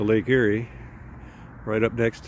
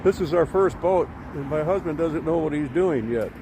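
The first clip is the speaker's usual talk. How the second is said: retold innocent wife; 4 semitones higher than usual. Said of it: "pipes up and goes".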